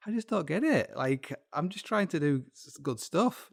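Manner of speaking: comic exasperated protest; Adolf Hitler. Acted. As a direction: plead innocence like a misunderstood villain, jokingly. Voices Hitler baffled at being controversial.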